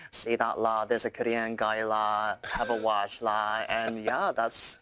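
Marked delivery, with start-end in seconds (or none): 0.1-3.6 put-on Scouse accent. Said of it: "the Scousers came to my video".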